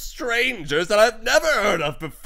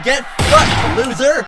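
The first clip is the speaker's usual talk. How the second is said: taunting voice; 4 dB louder than usual. Acted. Voice acting a character.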